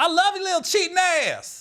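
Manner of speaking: very high-pitched yelling out. Retelling what a lady in the back yelled during a show: imitating someone yelling out. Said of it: "she just yelled out".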